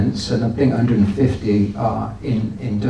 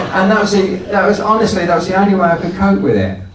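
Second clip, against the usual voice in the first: still laughing; 7 semitones higher, 3 dB louder, faster than usual. Real, not acted. Still laughing after the story.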